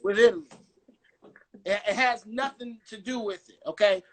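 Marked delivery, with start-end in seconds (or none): 0.0-0.5 high, loud exclaim of "with Italy"; spring it up in disbelief; incredulous. Real, not acted. Mocking punchline.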